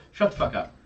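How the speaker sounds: low-volume, voiceless dismissal; retold curt order. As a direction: cut the helper off under your breath. Boss curtly silences helper, retold.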